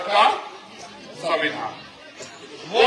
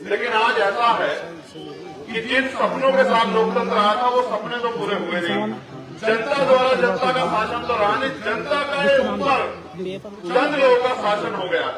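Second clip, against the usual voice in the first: emphatic rally address in measured phrases; political speech. Real, not acted. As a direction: address a crowd on democracy, pausing between phrases.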